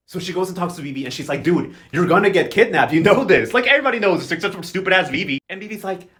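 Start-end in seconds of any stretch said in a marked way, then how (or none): 1.4-5.4 urgent warning. Retold or imitated. Beatrice warning Vivi urgently.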